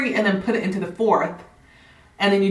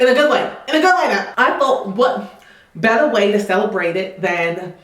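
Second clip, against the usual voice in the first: light put-on Southern accent. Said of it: "if my Southern accent isn't the best".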